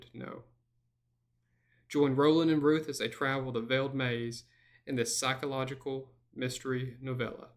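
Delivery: ominous movie trailer read. Shown as a demonstration. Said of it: "This is my movie trailer voice".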